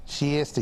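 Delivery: Shasta mimicked as "shee-ESS-ta"; imitating his Shasta. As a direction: echo his odd Shasta, "shee-esta". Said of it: "He says Shasta like he's".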